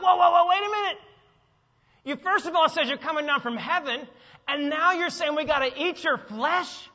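loud, high disbelief, whoa whoa whoa; incredulous whoa. Retold or imitated. Preacher voicing the stunned Jews, loud incredulous. Jews react to Jesus' words.

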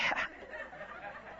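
giggle. Real, not acted. Gleeful inner reaction.

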